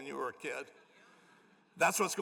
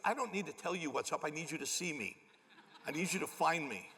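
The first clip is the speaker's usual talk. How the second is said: deadpan serious. Retold or imitated. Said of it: "he was, like, real serious".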